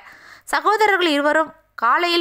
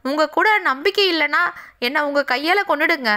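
tearful plea; 3 semitones higher than usual. Acted. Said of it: "அழுதா சீதா".

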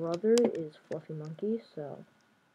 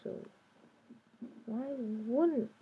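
mock scolding; 5 semitones higher, slower than usual. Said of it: "I'm like".

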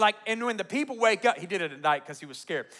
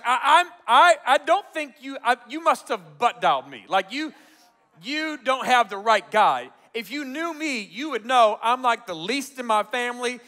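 making excuses; 5 semitones higher, 7 dB louder than usual. Retold or imitated. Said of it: "the excuses start flowing like Moses".

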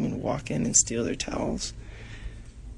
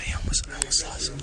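whispering; faster than usual. Real, not acted. Sneaking, hushed aside.

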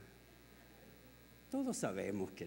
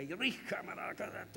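mock speaking in tongues; 4 semitones higher, 4 dB quieter than usual. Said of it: "andaba una mujer hablando en lengua".

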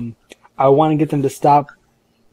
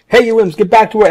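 higher-pitched yell at underlings; acted yell; 7 semitones higher, 4 dB louder than usual. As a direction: call out a mock-bossy order. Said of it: "I start yelling".

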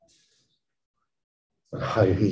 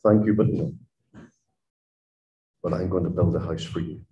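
soft, kind refusal sinking quieter; gentle no; 5 semitones lower, 5 dB quieter, faster than usual. Retold or imitated. The Lord answering our failing ideas, gently and softly. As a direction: decline tenderly, then promise quickly. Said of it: "The Lord says gently".

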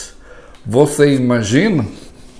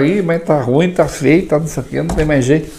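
gloomy complaint; 3 semitones higher than usual. Retold or imitated. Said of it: "você gasta pra falar".

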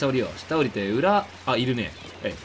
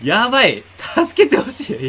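desperate shout; 6 semitones higher, 9 dB louder than usual. Real, not acted. Overwhelmed in match, begging.

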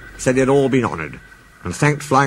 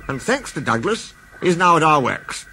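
announcing; 5 semitones higher than usual. Acted. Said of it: "announced the Fat Controller".

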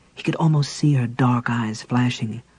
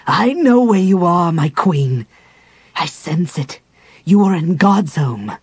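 raised, ringing challenge; Raistlin menacing; 5 semitones higher, 6 dB louder than usual. A narrator's reading. Raistlin to the Dark Queen, raised ringing challenge. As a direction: call out to the hidden queen.

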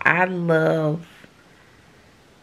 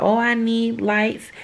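lighter, higher offhand request; breezy higher voice, asking her husband for gear; casual ask; 5 semitones higher than usual. Retold or imitated. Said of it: "I could say".

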